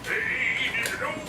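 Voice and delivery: high, soft little pained voice; tiny whiny voice, still sore; squeaky hurt voice. Pretend.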